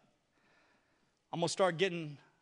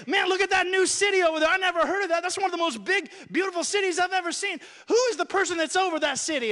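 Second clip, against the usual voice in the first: higher, quicker awestruck exclamation; amazed onlooker; 5 semitones higher, faster than usual. Acted. People arriving in heaven spot a new city, amazed. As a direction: marvel at a sight never seen before.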